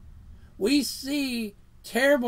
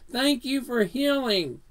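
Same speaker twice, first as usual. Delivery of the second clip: thankful prayer; 3 semitones higher than usual. Shown as a demonstration. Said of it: "Same thing with our prayers".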